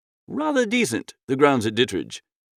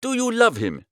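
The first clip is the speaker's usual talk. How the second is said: surprised; 6 semitones higher than usual. A narrator's reading.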